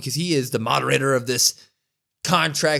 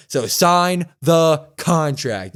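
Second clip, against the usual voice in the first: slow, emphatic order with raised pitch; mildly raised, drawn-out command; mock yell; 4 semitones higher, 4 dB louder, much slower than usual. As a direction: imitate an angry demand, each word spaced out. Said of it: "And he yells that again".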